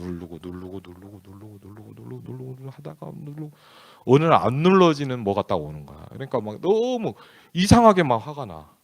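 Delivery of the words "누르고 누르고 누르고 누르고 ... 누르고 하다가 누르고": each word pressing the anger further down. Pretend. Preacher shows how he kept pushing his anger down, going quiet.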